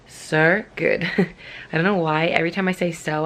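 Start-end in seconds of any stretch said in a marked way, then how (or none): 0.1-1.0 so good in a playful Australian accent, good said like goood; mock Australian twang on good; a light, half-joking Australian accent. Shown as a demonstration. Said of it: "I try and say it in an Australian accent".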